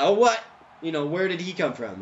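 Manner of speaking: sudden startled "what?"; baffled outburst at being killed; surprised. Retold or imitated. Retold reaction to getting killed.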